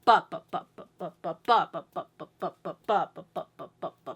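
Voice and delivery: "ba" pulses with natural accents; emphasis on first note. Shown as a demonstration. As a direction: chant running "ba" notes, accenting each group's start. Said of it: "a natural emphasis on the first note".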